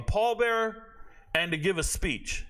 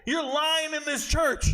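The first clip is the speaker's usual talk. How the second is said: raised, rising indignation at a lying commander; angry outburst; 7 semitones higher than usual. Retold or imitated. Soldier at a memorial, furious at the commander's speech, raised and heated. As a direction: let the anger build as you call him a liar. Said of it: "I said".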